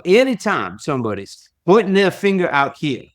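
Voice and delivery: put-on a fond, modest try at a Southern accent; Zig Ziglar's Southern accent. Quoting mentor Zig Ziglar's advice, light Southern accent. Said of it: "he had this wonderful Southern accent".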